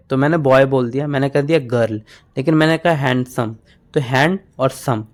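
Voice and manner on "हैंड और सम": हैंड and सम as two separate beats; teacher separating हैंड from सम; split into syllables. Shown as a demonstration. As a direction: break हैंडसम apart into हैंड, then सम. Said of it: "बीच में जो आ रहा है ना".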